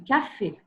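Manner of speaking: "café" ending in a clear closed é; accent aigu. Shown as a demonstration. Teacher showing a student the accent aigu in "café". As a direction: model "café" with a crisp final é. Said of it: "on a accent aigu".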